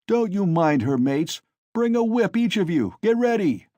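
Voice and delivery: loud, high brutish orders; drunken rallying call. A narrator's reading. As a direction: rouse the mates to whip. Mikolka rallies his mates.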